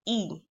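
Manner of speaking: a short "e" like in bin; the kasra vowel "e"; short e sound. Shown as a demonstration. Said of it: "and it sounds".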